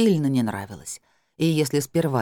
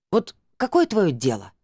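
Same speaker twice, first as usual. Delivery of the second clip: indignant; 4 semitones higher than usual. Acted. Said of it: "возмутилась Тамара".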